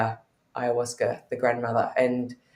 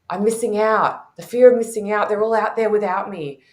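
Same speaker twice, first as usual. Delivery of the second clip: mock whiny fomo; 6 semitones higher, 5 dB louder than usual. Retelling her fomo panic.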